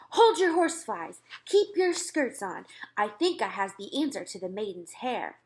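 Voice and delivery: lightly voiced big friendly giant, eager; a hint of a giant bursting with an idea. Giant calming the generals, lightly voiced and eager.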